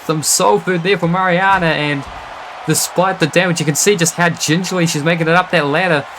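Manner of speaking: brisk, lively ringside call; wrestling commentator hyping the match; play-by-play commentary. Acted. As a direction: call the action like a live match.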